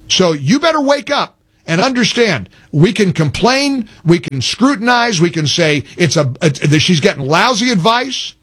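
fired-up rant. Real, not acted. Host to listeners, fired-up rant about the senate race. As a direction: hammer the point home, fired up. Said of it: "despite my rant".

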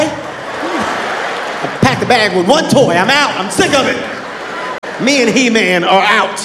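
lightly voiced pouting child; sulky kid. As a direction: announce running off with a toy. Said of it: "emotional ass kid".

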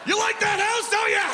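high, laughing shouted tease; giggly teasing. Retold or imitated. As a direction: tease the house, cracking up. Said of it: "I'm like".

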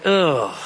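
mock groan of dismay. Dad hears how long the pet will live, dismayed groan. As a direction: let out a short retold "ugh". Dismay at the guinea pig's lifespan.

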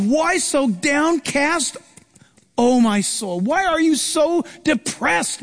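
high, very slow, half-sung lament; a drawn-out, mild sorrowful question to his own soul; lament to himself. Retold or imitated. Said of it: "as he's crying in his distress".

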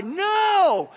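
sharp high shouted no; emphatic no. Real, not acted. Pastor rebuking the self-righteous, shouted. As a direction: cut the boast off hard. Preacher rejects boast forcefully.

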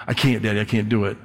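low, softening mock child's protest; doubting child. Child to Daddy before trying, lightly acted discouragement. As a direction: trail down in lightly acted defeat.

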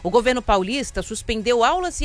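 brisk, even headline delivery over music; news headline read. Acted. Radio host reading the day's headlines to listeners, crisp news read.

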